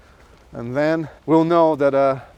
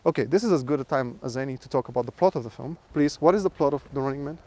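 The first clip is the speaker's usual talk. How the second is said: chewing while talking; talking through a mouthful of food; mouth full; 5 dB quieter than usual. Real, not acted. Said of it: "Are, are you chewing right now?".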